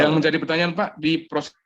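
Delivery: choppy, cutting out; glitching audio. Real, not acted. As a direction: voice breaking up over a bad line. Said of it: "Suaranya putus-putus".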